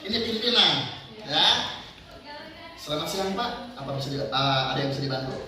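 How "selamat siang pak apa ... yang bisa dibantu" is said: soft, low, courteous offer of help; polite secretary demo. Shown as a demonstration. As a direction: greet the boss gently and politely. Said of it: "Tapi jangan ngomong "ah"-nya ya".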